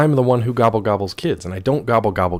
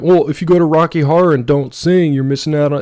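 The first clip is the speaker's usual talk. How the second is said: mock quote; 7 semitones higher, 7 dB louder than usual. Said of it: "people were saying".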